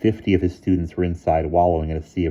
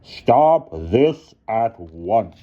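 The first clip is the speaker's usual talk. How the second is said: quietly firm; 5 semitones higher, 6 dB louder, much slower than usual. A narrator's reading. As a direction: command calmly and firmly. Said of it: "announced quietly and firmly".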